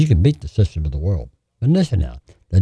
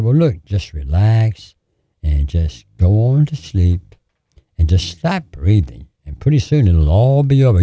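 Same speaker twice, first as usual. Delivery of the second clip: sweet, pleasant voice. Retold or imitated. Devil coaxing a dying man to stop breathing, sweetly. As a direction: lull the listener gently, taking your time. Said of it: "the sweetest voice you ever heard".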